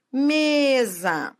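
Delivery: Mesa with a long ME; stress on penultimate syllable. Shown as a demonstration. Teacher showing a paroxítona, ME drawn out in Mesa. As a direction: stretch the first syllable of Mesa, drop off on SA. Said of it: "a sílaba tônica é a penúltima sílaba".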